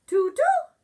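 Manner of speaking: high, loud hooting owl. Acted. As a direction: hoot it out like a wise owl. Owl doctor answers groundhog.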